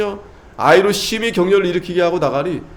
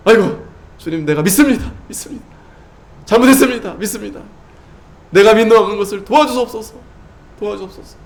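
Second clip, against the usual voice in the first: repentant plea; 4 semitones higher than usual. Acted. Father repenting, crying out.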